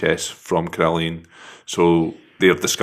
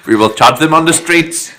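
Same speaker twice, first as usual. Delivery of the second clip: laughing Churchill impression; 9 semitones higher, 4 dB louder than usual. Echoing Churchill parody, laughing.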